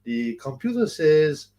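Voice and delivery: lightly imitated scam caller; halting, slowing pitch for bank details; George prank caller. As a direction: play a comic phone scammer, slowing down. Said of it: "George was, was by far the best".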